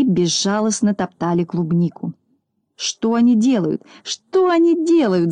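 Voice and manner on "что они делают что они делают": higher-pitched indignant cry; mild wail. A narrator's reading. Klops sees dogs trampling his strawberries, mild indignant wail. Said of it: "завопил Клопс".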